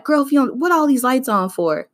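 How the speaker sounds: mock scolding mother; imitating her mom. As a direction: scold like a Black mom about the lights. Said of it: "hear your black mom in the back of your head being like".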